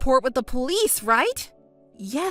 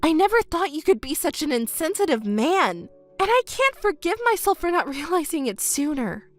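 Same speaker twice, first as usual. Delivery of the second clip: higher, disgusted and bitter; bitter outrage; 4 semitones higher than usual. Acted. Woman disgusted with her ex, high bitter outrage. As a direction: spit out the contempt, pitched high.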